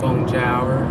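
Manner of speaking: bonjour ending like the English word hour; English-speaker French. Retold or imitated. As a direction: end bonjour with a hard American R. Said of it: "'Cause O U R is like hour".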